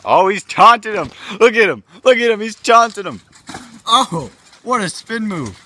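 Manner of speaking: high, loud ringside calls; excited play-by-play. Acted. Commentator watches wrestlers taunt and throw, high excited calls. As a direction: urge the crowd to look.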